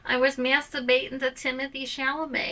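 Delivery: high, breathy naughty confession; mock dramatic confession.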